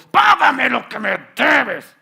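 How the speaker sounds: loud, high, slow threatening demand; menacing demand. A narrator's reading. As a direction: choke the debt out of him. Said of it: "le ahogaba". (exigencia amenazante, fuerte y lenta)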